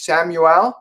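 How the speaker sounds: "Samuel" with a clear "EL" ending; pronounced as given. Shown as a demonstration. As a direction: say "Samuel" as Sam-yu-ELL, last vowel open. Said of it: "it's pronounced like that".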